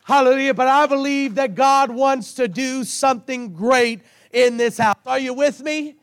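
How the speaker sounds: worn-out, hoarse preaching voice. Real, not acted. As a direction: preach through a voice that's nearly gone. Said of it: "As you can hear, my voice is gone".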